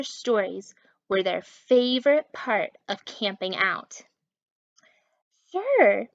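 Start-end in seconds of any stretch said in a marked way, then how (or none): 5.5-6.1 smiling. A narrator's reading. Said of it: "Maxwell smiled".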